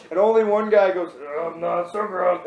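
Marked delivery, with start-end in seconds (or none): 1.4-2.4 half-hearted mock catchphrase; imitated reluctant reply. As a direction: say it like you're only doing it because asked. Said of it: "he does it just like, "Okay, I'll do it".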